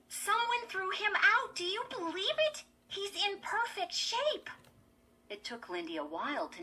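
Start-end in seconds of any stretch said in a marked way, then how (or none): 0.1-4.5 high, excited chatter; excited girl. A narrator's reading. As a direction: marvel at a lucky find. Gleeful girl shows off her find.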